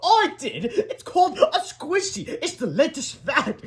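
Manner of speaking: high, slow, laughing reply. A narrator's reading. Amused woman explaining the prank, laughing. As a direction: draw it out through giggles. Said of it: "laughed Miss Ripple".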